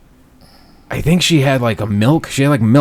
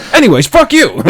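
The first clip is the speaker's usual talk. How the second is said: mock dismissive; 12 semitones higher, 6 dB louder than usual. Dismissive retold aside.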